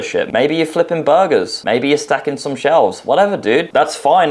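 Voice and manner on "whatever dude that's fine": normal talking voice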